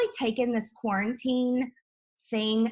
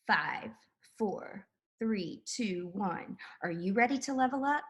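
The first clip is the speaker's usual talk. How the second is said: sales pitch. Pretend. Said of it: "Give us your fifteen-second sales pitch".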